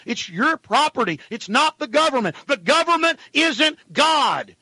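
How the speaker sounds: real indignation, pitch climbing; indignant rant. Real, not acted. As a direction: hammer it out, building to a slow, high last line. Host angrily denouncing the government.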